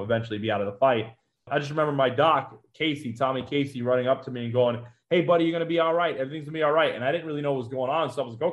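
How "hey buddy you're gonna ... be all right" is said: quick, higher-pitched mild reassurance; lightly acted, hurried comforting; retold reassurance. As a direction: imitate a medic hurriedly comforting a buddy. Doc reassuring the wounded man.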